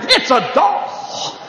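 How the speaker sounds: slow, teasing dad; mocking dad. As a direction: drag it out to mock the boy. Dad mocking son's toy.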